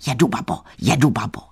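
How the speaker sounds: boys' taunting chant, lightly voiced; mocking street call. A narrator's reading. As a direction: call it out teasingly, in short bursts. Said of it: "pokřikovali na ní". (posměšné pokřikování)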